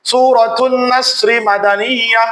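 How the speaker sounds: slow, drawn-out Quran recitation tone. Shown as a demonstration. Teacher reciting the sura title slowly to students. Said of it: "আমি পড়ি।".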